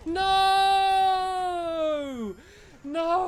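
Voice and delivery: loud, high yell of defeat; real shout of dismay. Real, not acted. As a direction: scream it as you lose. Character just got taken out.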